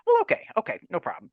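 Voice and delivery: high, lightly voiced mock teacher. Teacher answering shy kid's request, in a high mock-teacher voice. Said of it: "She's like".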